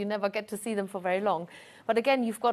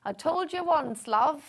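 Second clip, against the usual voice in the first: put-on Yorkshire accent; 3 semitones higher than usual. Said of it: "excuse my Yorkshire accent".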